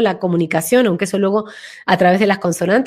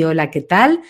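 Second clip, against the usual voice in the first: calm greeting, lower than her own; lower settled voice; 5 semitones lower than usual. Retold or imitated. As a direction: drop the voice and greet simply. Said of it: "la voz le bajó, así".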